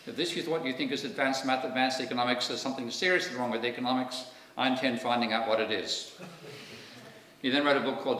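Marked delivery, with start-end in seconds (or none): 0.1-6.1 a light attempt at an Austrian accent, raised a bit; a tentative imitation of an Austrian accent. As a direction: try out a mock Austrian accent for the stern academic. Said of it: "I'm gonna try to do an Austrian ac".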